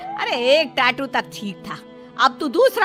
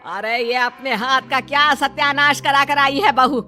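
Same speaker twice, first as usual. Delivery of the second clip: mildly cross mother-in-law; exasperated telling-off; angry scolding. Acted. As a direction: scold the daughter-in-law with understated anger. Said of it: "गुस्सा करने लगती".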